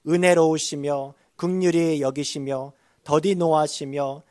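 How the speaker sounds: forceful, even liturgical recitation; scripture reading. Acted. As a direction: lead the congregation through the verses, loud and measured. Leads congregation in scripture reading.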